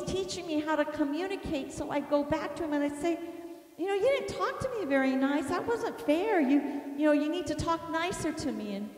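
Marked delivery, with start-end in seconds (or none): 3.8-8.8 higher, quick retold protest; hurt complaint. Wounded wife going back to her husband, complaining. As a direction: mildly plead for fairer treatment.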